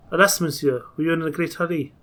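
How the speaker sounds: lightly put-on French accent; amateur French accent, politely apologetic. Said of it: "That's my French accent".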